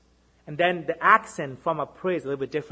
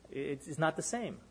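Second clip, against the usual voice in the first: soft emphasis; 11 dB quieter than usual. Acted. Preacher lowers voice.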